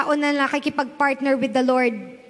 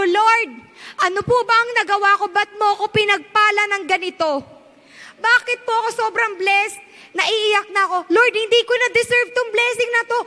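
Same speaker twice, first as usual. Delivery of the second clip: retold tearful prayer; 7 semitones higher than usual. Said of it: "I was crying".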